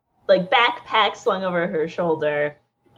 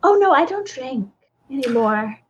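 nervous; 4 semitones higher than usual. Acted. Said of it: "nervous to be back in the city".

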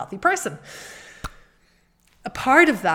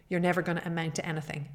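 inner critic voice; 6 dB quieter, much faster than usual. Retold or imitated. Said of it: "my mind would say to me".

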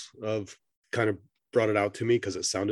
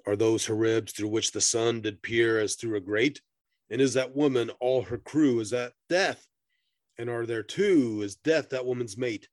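dramatic verse reading; poem recitation. Acted. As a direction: recite it like an old ballad. Reads the poem aloud.

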